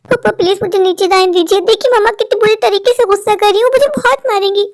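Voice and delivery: put-on a boy scared of a beating; frightened child. Child afraid of mother's anger.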